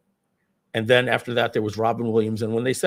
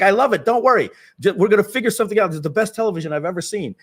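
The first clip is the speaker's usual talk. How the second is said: much higher, louder, fast gushing; thrilled producer; 9 semitones higher, 5 dB louder, faster than usual. Retold or imitated. Gary Marshall reassures the laughing cast, high and gushing. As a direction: rush it out, delighted. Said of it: "Gary Marshall's like".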